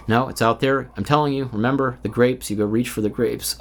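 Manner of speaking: a hint of Eric's preachy delivery; copying Eric. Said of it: "like, copying Eric here, his mannerisms".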